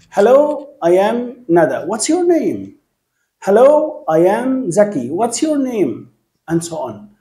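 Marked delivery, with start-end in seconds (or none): 0.1-2.8 bright teacher demo of a greeting, rising hello; model dialogue demo. Shown as a demonstration. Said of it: "بنفس الطريقة". 3.4-6.1 bright teacher demo of a greeting, rising hello; model dialogue demo. Shown as a demonstration. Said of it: "بنفس الطريقة".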